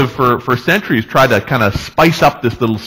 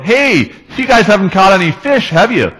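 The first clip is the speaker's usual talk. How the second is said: higher, raised call of a nosy guy; a lightly voiced busybody's shout; 8 semitones higher, 4 dB louder than usual. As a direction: holler it at the boat. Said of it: "basically shouts out".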